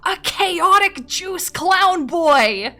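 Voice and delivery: high, loud, slow laughing cry; laughing shout. Real, not acted. Streamer repeating her own nickname, laughing shout. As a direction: wail it through laughter.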